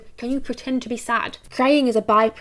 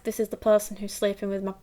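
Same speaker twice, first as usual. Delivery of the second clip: stunned realisation; 3 dB quieter than usual. Shown as a demonstration. Character realising who sleeps with their partner. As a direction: think it with shocked disbelief. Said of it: "that thought in the eyes".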